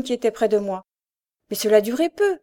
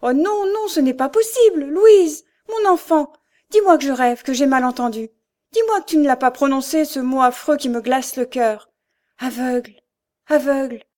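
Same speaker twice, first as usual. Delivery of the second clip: much higher and louder, pleading in disbelief; distraught mother; 3 semitones higher, 4 dB louder than usual. Acted. Mother refusing to believe her daughter is going blind, distraught plea. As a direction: beg her child to deny it.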